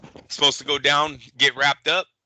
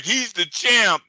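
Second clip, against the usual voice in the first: high, slow sarcastic mock praise; mocking the promoter; 10 semitones higher, 4 dB louder, slower than usual. Host mimicking Oscar's praise of the champ, high and slow. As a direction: drag it out, mocking his praise.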